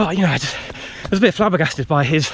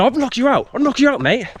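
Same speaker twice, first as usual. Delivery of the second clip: threat; 11 semitones higher than usual. Retold or imitated. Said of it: "And he said".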